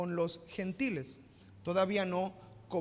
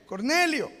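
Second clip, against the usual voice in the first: angel calling; 6 semitones higher, 9 dB louder, slower than usual. Acted. Angel calls Cornelio by name.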